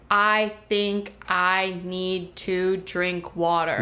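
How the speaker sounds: slow, word by word, each word picked up separately; halting slow speech. Retold or imitated. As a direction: drag it out one word at a time. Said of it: "if after every word you picked up the next word".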